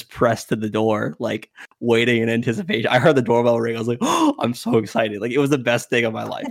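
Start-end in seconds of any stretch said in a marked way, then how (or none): 4.0-5.2 sharp gasp, then eager relish; retold excitement. Teller listens at the door for the showdown, thrilled. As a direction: gasp and gloat, lightly reliving it. Eavesdropping, thrilled, gasps first.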